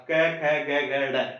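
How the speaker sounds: school-style row ending in a flapped ड़; childhood recitation. Retold or imitated. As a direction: run through क, ख, ग, घ with ड़ wrongly ending the row. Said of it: "इसको इसी प्रकार से पढ़ा था". (बचपन की तरह, आख़िर में ड़ बोलते हुए)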